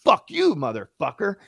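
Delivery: very high strained curse, dropping at the end; mock angry yell. Cabbie curses back at his passenger, mock furious. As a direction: imitate a furious cabbie without full volume.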